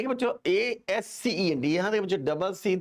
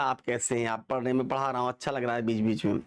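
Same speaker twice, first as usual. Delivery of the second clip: lower, easy everyday Hindi; affectionate Hindi; 5 semitones lower than usual. Shown as a demonstration. Teacher shows how we chat in Hindi, affectionate and low. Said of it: "Hindi में कितनी प्यार से बात करते हैं".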